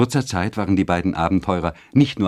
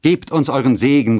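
loud, raised plea; high, earnest entreaty; youth's call; 6 semitones higher, 5 dB louder than usual. A narrator's reading. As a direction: call out for a blessing. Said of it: "rief der Jüngling".

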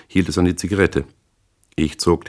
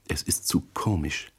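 breathless; 9 dB quieter than usual. A narrator's reading. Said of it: "sagte sie atemlos".

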